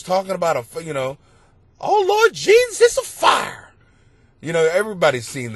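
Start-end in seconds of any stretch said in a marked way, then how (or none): 1.8-3.7 high, loud frantic imitation; viral lady impression. Comic retelling the fire interview, high frantic impression. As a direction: cry it out like the panicked interviewee. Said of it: "some lady interviewed this lady".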